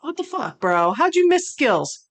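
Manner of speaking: exasperated at the list maker; outraged. Real, not acted. Outraged at missing Skills.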